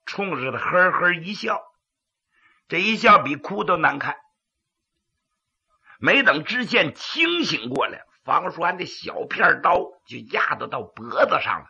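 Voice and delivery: pingshu storytelling narration; dramatic Chinese storyteller; gravelly dramatic storyteller. A narrator's reading.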